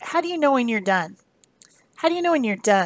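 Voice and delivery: ordinary talk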